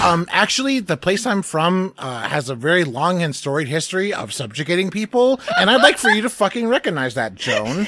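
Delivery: playing a fussy know-it-all setting her straight; mock Sherlock lecture.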